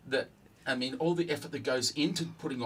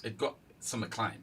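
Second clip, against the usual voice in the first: mid-burp; words pushed out past a burp; 2 semitones lower, 4 dB quieter than usual. Real, not acted. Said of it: "Excuse me, see, I'm burping".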